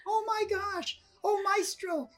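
high, loud gasping awe, imitating a fan; awestruck exclamation. Woman recognising the maestro who saved her, awestruck. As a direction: cry out as if meeting your idol. Retelling woman's amazed reaction.

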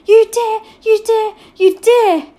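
high, loud, furious threat; through clenched teeth. A narrator's reading. Omri pins his friend down, grinding it out. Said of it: "He ground out and clenched teeth".

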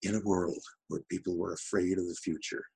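soft, lightly imitated trailer narrator; understated epic trailer opener; Don LaFontaine. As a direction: give it a hint of movie-trailer gravity. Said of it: "he starts every sentence in a certain way".

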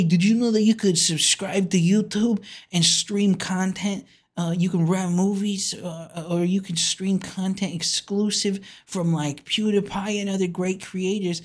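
mock promoter. Mock pitch for YouTube subscription.

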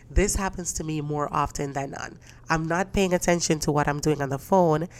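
talking with a blocked nose; congested, stuffed-up voice; stuffy nose. Real, not acted. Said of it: "man, I sound stuffy".

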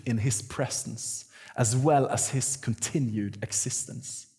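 slow, deliberate English read-out; reading a quotation. Real, not acted. Preacher quotes British theologian to congregation, deliberate reading. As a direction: read each phrase slowly and emphatically.

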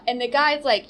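usual speaking voice

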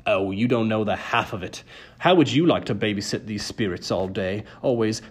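lightly voiced ferryman of the dead; a hint of a put-upon grumbler; grumbling ferryman. A narrator's reading. Charon complaining about his job.

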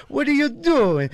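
put-on high, drawn-out scolding old woman; old Italian lady. Old lady catches him under her tree, high scolding. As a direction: shriek it like an outraged old lady. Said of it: "this old Italian lady goes".

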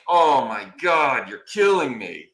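slow, drawn-out mock despair; retold exasperation. Client inwardly reacting to the lawyer's slip, exasperated. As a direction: groan it out in disbelief.

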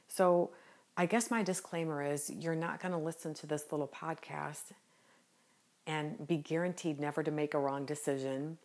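smiling voice. Real, not acted. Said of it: "And I'm grinning as I say that. I hope you can hear the smile in my voice".

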